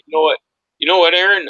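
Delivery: loud, high, eager; excited. Real, not acted. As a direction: burst in with excitement. Excited interjection.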